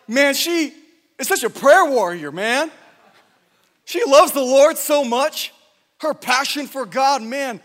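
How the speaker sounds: loud, slow gushing praise of a prayer warrior; mock admiring gush. Preacher mimicking the congregation's gushing praise. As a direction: ham up the awestruck churchgoer.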